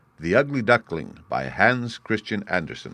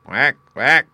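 much louder, higher quack quack; loud mother duck quack; 5 semitones higher, 8 dB louder than usual. A narrator's reading. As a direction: quack loud to call the ducklings. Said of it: "she said".

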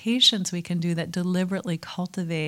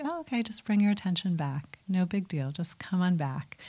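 soft, easygoing self-reassurance; gently loving; 4 dB quieter than usual. Acted. Meditator kindly guiding wandering attention back, gentle and neutral. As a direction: coax yourself back kindly, no pressure. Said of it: "even a little bit loving".

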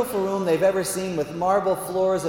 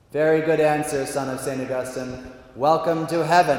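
lightly voiced grand pronouncement; measured, magnanimous verdict; God the Father. God admitting the Augustinian to heaven, lightly pompous approval. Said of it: "So that's how he talks".

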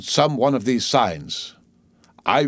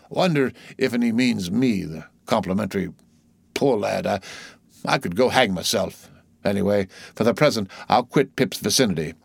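uneasy sailor aside. Acted. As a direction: mull it over privately, unsettled by the boy. Voices Stubb withdrawing from Pip.

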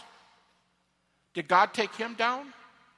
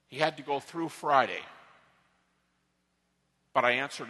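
gently reassuring; 7 semitones lower than usual. Acted. The Lord answering his prayer question in a make-believe conversation, gently reassuring.

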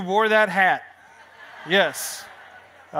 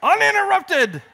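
dramatic build; 11 semitones higher, 3 dB louder than usual. Acted. Stuntman announcing his next act, hammed-up rising drama. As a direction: land the big word like a daredevil announcer.

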